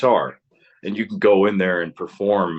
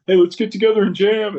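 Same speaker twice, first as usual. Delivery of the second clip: high, louder hammed-up kid excitement; mock eager teen; 12 semitones higher, 5 dB louder than usual. Teen pitching a jam session to friends, mock excited. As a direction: parody your younger self's eagerness to jam. Mocking teen band dreams.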